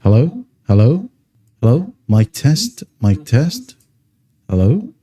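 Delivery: mic test through a voice changer effect; voice changer filter. Shown as a demonstration. Demoing the voice changer to viewers, filtered mic-test voice. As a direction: call hello into the mic as if testing a filter. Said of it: "You can listen".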